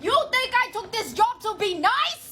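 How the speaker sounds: high snippy teacher voice; mocking the teacher. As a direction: sneer it as the teacher. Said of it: "And she's like".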